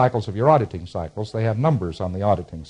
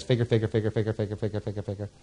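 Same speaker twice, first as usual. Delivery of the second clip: soft, monotone repetition, fading steadily; figuring to oneself; 8 dB quieter, faster than usual. Acted. Lecturer acting out a patient puzzling it out, muttered figuring. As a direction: mull it over under your breath, trailing off. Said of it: "The P C says".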